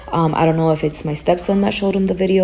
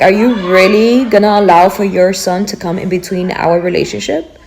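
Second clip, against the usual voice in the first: louder, pleading challenge; retold confrontation; 6 dB louder than usual. A mother confronting her man over his son, louder and pleading. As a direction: demand an answer from him.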